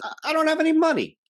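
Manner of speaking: high, fast, panicked father voice; panicked dad. Retold or imitated. Father panicking over paying for the wedding, high and fast. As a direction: squeak it out like a cornered dad. Father refuses to pay, acted.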